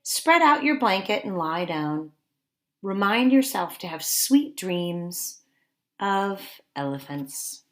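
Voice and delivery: storybook narration. Acted. Teacher reads the sleepy hill page aloud, gently and slowly. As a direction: read it like a lullaby. Reads bedtime book text.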